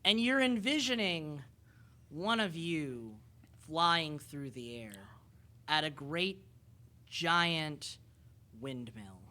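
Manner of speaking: slow, dramatic narration with long pauses; measured, suspenseful storytelling that sinks at the end; game master's vision. Acted. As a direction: unveil the prophecy phrase by phrase.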